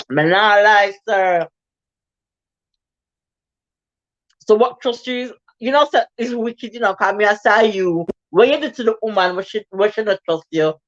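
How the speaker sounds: Jamaican patois, lively questioning; Jamaican accent. Acted. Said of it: "Sorry, my have to say it".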